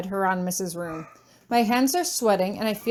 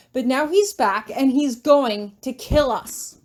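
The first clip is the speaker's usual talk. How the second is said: shrill and angry; 3 semitones higher, 4 dB louder than usual. Acted. Tori furious accusation continues.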